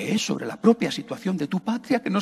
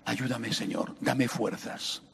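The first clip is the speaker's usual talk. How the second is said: soft, low, slow begging; soft plea; 6 semitones lower, 7 dB quieter, slower than usual. Acted. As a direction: plead gently and slowly. Pleading prayer.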